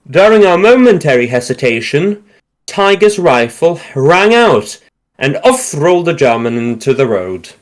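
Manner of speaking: measured war-memoir reading with deliberate phrase breaks; story narration. A narrator's reading. Trooper recounting a night at an outpost, measured narration. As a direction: read it out like an old soldier's account.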